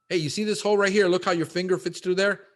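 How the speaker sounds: excited, like showing a client the hole; eager show-and-tell. Pretend. Acting out pointing at a hole.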